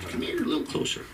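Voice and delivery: whispered, drawing the crowd in; conspiratorial whisper. Acted. Comic draws the audience close for a secret, whispering. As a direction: hush it like a secret. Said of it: "Lean in, I'm gonna share".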